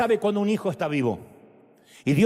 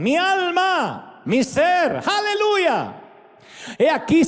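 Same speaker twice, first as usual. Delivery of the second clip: impassioned preaching with soaring aleluyas; Spanish altar-call preaching, pleading and fervent. Acted. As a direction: pray over the congregation, rising and falling. Preacher leading altar call prayer.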